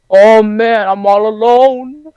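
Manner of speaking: high, slow whiny self-pity; hammed-up lonely kid moping; mock sad lament. Kid alone on the bus, moping in a high slow voice.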